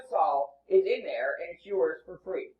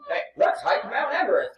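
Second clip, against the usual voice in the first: higher, mock-keen hiker; mock eager invitation; 4 semitones higher, 3 dB louder than usual. Outdoorsy date proposes a climb to a homebody, mock eager. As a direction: lightly imitate an eager outdoor type.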